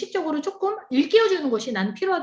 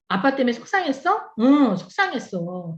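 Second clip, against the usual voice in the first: put-on gentle mom and child. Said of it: "그 얘기를 표현할 수 있는 거야".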